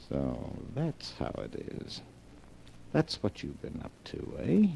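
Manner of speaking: soft, ominous muttering; menacing mutter. Acted. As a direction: brood darkly under your breath. Alone, has discovered wife's secret.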